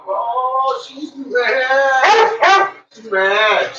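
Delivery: high mock-sympathetic voice; talking about the dog in a high teasing voice; high pet-talk. Narrating the dog's mood.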